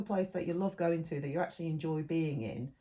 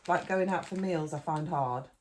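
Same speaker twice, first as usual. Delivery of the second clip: talking with a mouth full; 3 dB louder than usual. Real, not acted. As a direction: speak around a mouthful of chocolate. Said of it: "I'm eating with my mouth full".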